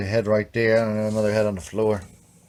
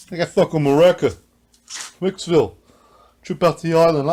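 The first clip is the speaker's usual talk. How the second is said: put-on Long Island accent; 7 semitones higher, 6 dB louder than usual.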